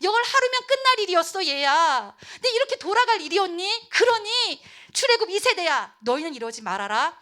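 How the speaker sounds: high, loud exasperated scolding; heated appeal, easing at the end; frustrated. Acted. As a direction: reproach the next generation urgently. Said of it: "너무 답답했어".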